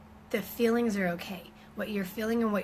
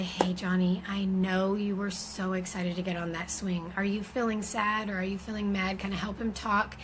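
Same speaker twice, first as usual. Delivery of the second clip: gentle mom; 3 dB quieter than usual. Shown as a demonstration. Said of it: "You're gonna say".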